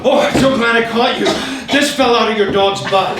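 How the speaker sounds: loud, high-pitched show of helpfulness; nicely, mock-friendly. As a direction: call out with exaggerated politeness. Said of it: "I said it so nicely".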